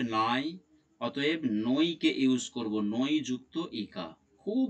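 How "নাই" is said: নাই said as one gliding "naai"; aay sound demonstrated. Shown as a demonstration. Teacher showing the sound inside a word, নাই pronounced with "aai". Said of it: "উচ্চারণে আয় উচ্চারিত হচ্ছে".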